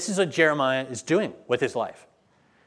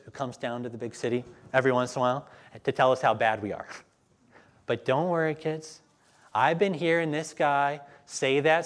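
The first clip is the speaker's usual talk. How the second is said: a touch of a dismissive parent; lightly voiced parent. A parent telling the kids to ignore the prophet, lightly dismissive. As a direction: brush it off gently for the kids. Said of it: "parents were probably saying things like".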